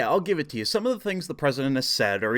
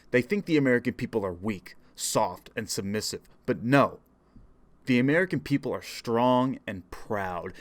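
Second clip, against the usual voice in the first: formal political speech. Acted. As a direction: deliver it like a solemn campaign speech.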